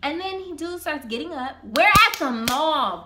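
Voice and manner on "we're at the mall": loud, drawn-out exclamation of disbelief; exclaiming in disbelief. Real, not acted. Storyteller appalled at a mall proposal, exclaiming in disbelief. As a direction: stretch it out loudly, appalled at the setting. Stressing absurd proposal location.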